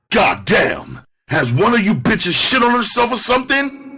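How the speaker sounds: high-pitched, outraged holler; angry bellow. Acted. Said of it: "I bellowed".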